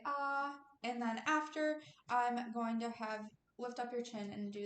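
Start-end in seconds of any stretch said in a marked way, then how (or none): 0.0-0.6 demo ah. Shown as a demonstration. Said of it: "and say".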